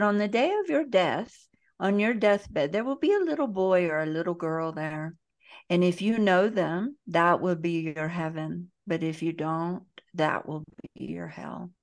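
badly faked Brazilian accent, falling away at the end; butchered Brazilian accent. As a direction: quote the author in a rough Brazilian accent. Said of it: "I'm gonna butcher his accent".

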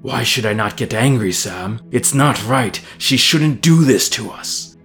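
mild anger climbing in pitch; rising anger. Acted. Master arguing back at his servant, growing angrier. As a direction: build indignation toward the last words. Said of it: "sounding angrier than Sam had ever heard him".

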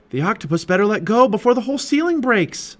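high, loud, urgent worry; urgent alarm. A narrator's reading. Jack to Annie as the ceiling cracks, alarmed. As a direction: raise the voice in mounting alarm. Boy fears the ceiling breaking.

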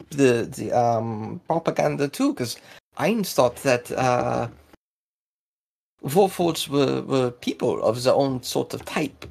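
lightly put-on Russo-German voice; confused accented character. Local explaining old beliefs to the party, puzzled in Russo-German accent.

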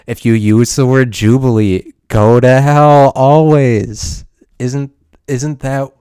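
hammed-up damnation, stretched for effect; mock curse. Vlogger damns anyone saying jubilee, slow hammed-up curse.

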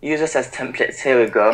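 lightly imitated English accent; attempted English accent. Shown as a demonstration. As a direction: copy the hosts' English accent, tentatively. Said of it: "introduce yourself in that English accent".

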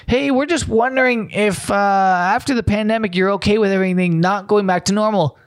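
high, chirpy voice of a cheery caller; mock caller Bill. Vlogger plays a pollster calling, lightly voiced chirpy caller. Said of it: "I'm Bill from New Zealand".

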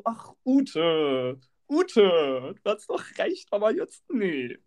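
long-suffering, drawn-out appeal to Ute; exasperated. Retold or imitated. Fellow passengers wave off Ute, exasperated. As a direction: groan it like a weary onlooker. Bus groans at Ute in chorus.

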